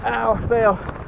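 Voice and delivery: high, breathless and frantic; flustered in the rain, voice up high. Real, not acted. Drenched in storm, night camp.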